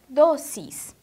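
"doces" said loudly, both syllables distinct; emphasised sound. Shown as a demonstration. Teacher asking pupils to note the sound, emphasised syllables. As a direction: punch out "doces" as do-ces for the ear. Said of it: "olhem bem o som".

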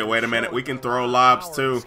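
grudging quiet quote of the other team; muttered mock boast. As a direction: mutter the rival's line under your breath. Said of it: "But they say".

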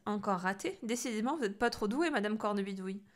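cheeky teasing; cheeky taunt. Acted. Boy teasing the witch, cheeky. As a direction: poke fun at her.

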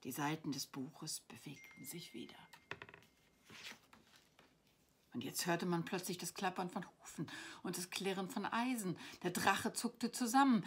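expressive storybook reading; story narration. A narrator's reading. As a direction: read a bedtime adventure aloud, lingering on key words. Reads her story aloud.

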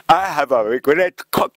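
put-on slow, proud Japanese-accented English. Prime minister proudly addressing world leaders in slow Japanese-accented English. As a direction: announce it slowly, word by word, in katakana English. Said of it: "ちゃんと言ったんだよ".

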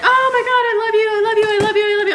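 high, loud, over-the-top gushing; mock a fawning host cooing at a guest; hammed-up imitation of a gushing host; mock gushing podcaster. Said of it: "then they're like".

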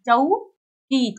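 चौकी stretched very slowly; drawn-out word. Shown as a demonstration. Teacher stretching चौकी so children can hear each sound. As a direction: draw out चौकी for the class to hear.

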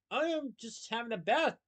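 high screechy voice; screeched. A narrator's reading. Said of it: "Proudnose screeched".

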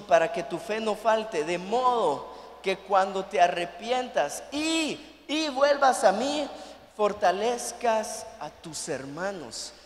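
slow, measured reading; scripture reading. Acted. Pastor reading Luke to the church, measured scripture reading. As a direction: read the verse with weight.

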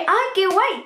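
high, excited little squeal of relief; retold burst of happy excitement; delighted exclamation. Schoolgirl hears that school starts at nine, delighted.

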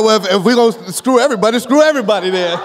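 sulky church member. Retold or imitated. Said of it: "don't be like".

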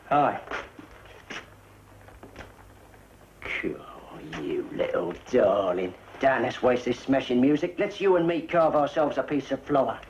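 woo her with easy confidence; smooth chat-up line. Shown as a demonstration. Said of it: "Here, I'll show you".

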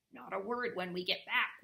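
pressing, emphatic caution; warning. A narrator's reading. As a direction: warn a friend to keep it secret. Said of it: "warned Camelin".

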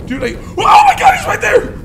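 sharp gasp then high shrieking; terrified gasp and scream. Real, not acted. Streamer sees the monster right there, terrified shriek.

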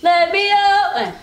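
slow, drawn-out words for a lip-reader; insistent repeating. Real, not acted. Player repeating the phrase in whisper challenge, insistent and slow. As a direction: stretch each word to be understood.

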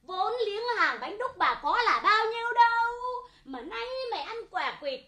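nhại giọng bà bán hàng chửi đổng, kéo dài, to dần; chửi đổng như bà bán hàng ngoài chợ; bà hàng bánh đúc chửi. Retold or imitated. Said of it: "Con chửi bác nghe nhá". (giả giọng bà bán bánh đúc chửi kẻ ăn quả quýt)

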